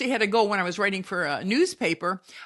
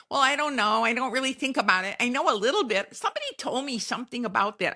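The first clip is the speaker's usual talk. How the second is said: higher, quicker airhead impression, lightly done; dumb bunny voice; 4 semitones higher, faster than usual. Mocking a listener who never learned the facts, as a high, fast airhead. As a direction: play a clueless airhead with a shrug in the voice. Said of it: "being a dumb bunny".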